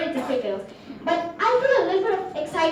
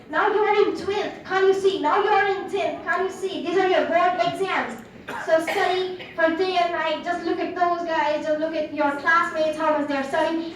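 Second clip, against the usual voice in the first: lecturing parents; 2 semitones higher than usual. Acted. Parents to student before board exams, mild lecturing. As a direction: scold like a parent nagging about exams. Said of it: "from my parents' lecture".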